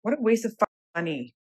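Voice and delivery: exasperated rant at the store, swearing; frustrated outburst. Real, not acted. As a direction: vent the anger at wasted money. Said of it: "I'm just mad at myself".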